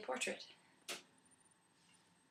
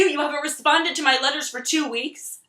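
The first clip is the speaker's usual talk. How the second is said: anxious pleading; 3 semitones higher, 4 dB louder than usual. Acted. Sasha pleads, anxious outburst.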